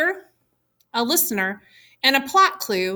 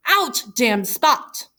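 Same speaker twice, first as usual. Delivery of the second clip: mock cry; much slower than usual. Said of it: "comma, cry".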